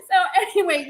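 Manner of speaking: ordinary delivery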